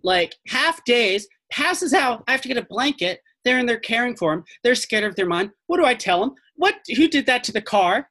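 high-pitched, agitated account; acted overwhelmed park ranger; frantic ranger. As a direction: pile up the questions in a panic. Frantic ranger recounts the night.

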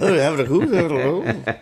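hammed-up bad Australian accent, laughing; mock a Brit faking an Australian accent. Co-host mocks an ad's bad Australian accent, laughing through it. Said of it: "The worst accent".

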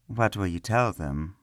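slow, puzzled-sounding innocence; a touch of mock bewilderment; feigned confusion. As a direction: pretend not to understand. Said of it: "feigning confusion".

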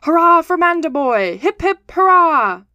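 loud, high rallying cheer; frantic cheering shouts. A narrator's reading. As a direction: cheer it out like a crowd of voters. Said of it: "there were frantic shouts of".

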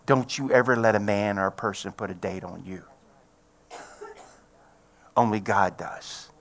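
low, soft reassurance; gentle firm counsel. Retold or imitated. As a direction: quietly reassure her, slowing at the end. Retelling his comforting of a patient.

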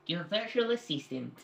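put-on slow Australian-accented assistant voice; imitated Australian Siri. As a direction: mimic an Australian virtual assistant, slowly. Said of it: "That was pretty good".

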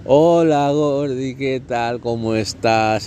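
a friend calling out of the blue, all charm; breezy friend greeting. Retold or imitated. Acted friend greeting after months.

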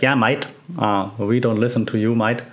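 a light, hammed-up Australian accent leaning on "mate"; a playful, deliberately poor Australian impression; bad Aussie accent. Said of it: "my Aussie accent is terrible".

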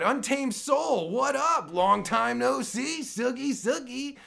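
high, slow welcome to a viewer; cheery greeting. Real, not acted. Host greeting a returning viewer in chat, cheerfully. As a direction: sing out a happy hello.

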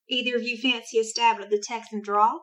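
Texan accent. Shown as a demonstration. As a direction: have a tentative go at a Texan accent. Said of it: "but in a Texan accent".

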